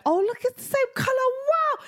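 high, gushing sing-song coo; mock coo. Mum imitating herself cooing over the hoodie. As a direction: overdo the delight to a toddler.

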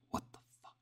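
silent unvoiced whisper; mouthed. A narrator's reading. Lydia mouthing to her roommate in the dark, whispered. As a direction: mouth the words with barely any breath. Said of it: "she mouthed to me".

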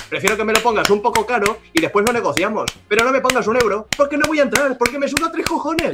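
'no voy a entrar' 쪽으로 갈수록 목소리를 높여 가며 분노를 쌓아 올리기; rising mock rant. Ranting at one-euro Wallapop sellers.

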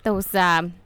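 put-on loud, chatty Midwestern accent; big Midwestern character voice; Susan. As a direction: ramble on in hammed-up Minnesotan. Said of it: "a Midwestern character".

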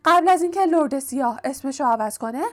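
high-pitched house-elf explaining; elf stating the obvious. A narrator's reading. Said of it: "گویی جواب این سوال بدیهی بوده است و گفت".

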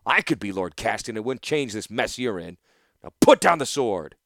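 cold threat with the bow drawn; stern master archer. Acted. Instructor Gerard ordering Torsten back, stern and loud.

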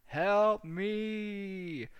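high, loud drawn-out cry; hammed-up panicked yell; mock scream for help. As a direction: scream it like you're on fire. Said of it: "shake them and scream".

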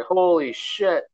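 slow, high stunned exclamation; stunned fans. Retold or imitated. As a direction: drag out the disbelief. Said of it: "people are just like".

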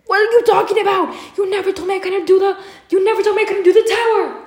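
high-pitched disbelief, laughing through it; laughing protest. Retold or imitated. Retelling arguing with the counselor.

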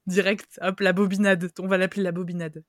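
excited. Real, not acted. Coining a joke name.

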